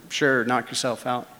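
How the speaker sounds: half-asleep, barely bothering; mumbled reply. Retold or imitated. Woken friend answering Jeff, mumbling sleepily. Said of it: "I mumbled".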